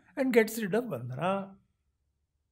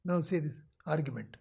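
whispered aside; 7 semitones lower, 8 dB quieter than usual. Real, not acted.

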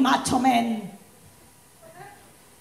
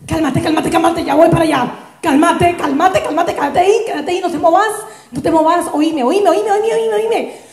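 frantic calming; 3 dB louder than usual. Acted. Friend frantically calming drunk.

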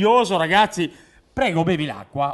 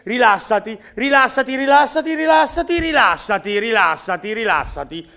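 rilassati; 3 semitones higher, 4 dB louder than usual. Acted. Mago che ipnotizza il compare.

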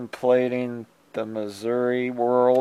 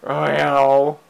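a light meow at the cat; mock meow; 7 dB louder than usual. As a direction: meow back casually. Meowing at her cat.

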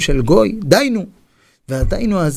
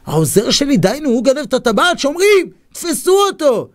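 high indignant outburst climbing to a shout; acted royal fury; outraged king; 9 semitones higher than usual. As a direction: realise the betrayal and call out for the guards. King discovers thief, calls guards.

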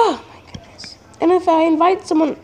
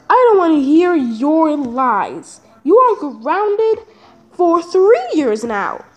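slow, deliberate mock-stern father; stern slow dad verdict; 3 semitones lower, slower than usual. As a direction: lay down the law word by word. Dad sentencing slowly.

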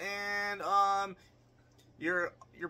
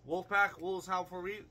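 howling shout; wolf voice. Pretend. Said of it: "That was quiet".

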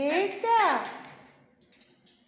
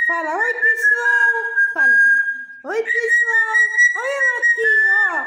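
squeaky praising a dog; 4 semitones higher, 8 dB louder than usual. Real, not acted. Loudly coaxing parrot to talk.

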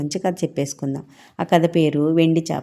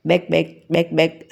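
lightly imitated frog croaks; spoken croaks in quick pairs, mildly voiced; frog croaking. A narrator's reading. Green frog calling out for help, light imitated croaking. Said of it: "అరవసాగింది".

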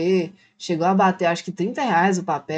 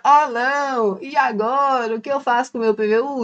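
mildly panicked, pitched-up wail; mock desperation; 4 semitones higher than usual. Creator imitates a desperate player stuck with the token, mock panic. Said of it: "se você tá aí desesperado".

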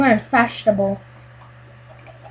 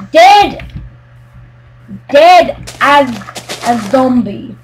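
mock threat; 4 dB louder than usual. Real, not acted. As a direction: warn the griefer with a raised voice. Threatening the griefer.

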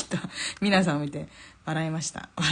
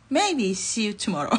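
slow, amused correction falling at the end; drawn-out tentative farewell breaking into laughter; laughing hedge; 3 semitones higher, much slower than usual. Real, not acted. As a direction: take back the promise with a laugh.

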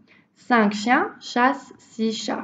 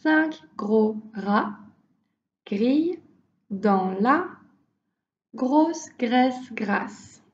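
slow chunked demo. Shown as a demonstration. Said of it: "let's try again".

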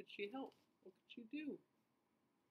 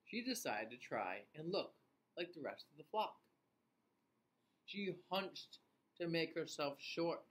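story reading; 4 dB louder than usual. A narrator's reading. Reads story to children.

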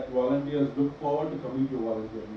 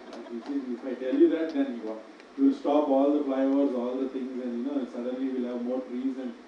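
sarcastic. Acted. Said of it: "I'm being sarcastic".

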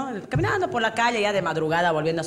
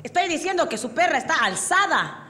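higher, emphatic explanation; mock-annoyed restating for a drunk; exasperated policeman; 5 semitones higher than usual. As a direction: play an officer losing patience. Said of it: "Y el policía le dice".

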